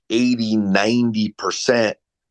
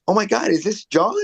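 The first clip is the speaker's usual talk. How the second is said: higher, mock-excited recognition; imitating delighted prospect; 10 semitones higher than usual. Coach imitating prospects who think he's a friend, mock-excited. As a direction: sound thrilled, like greeting a friend. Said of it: "people will be like".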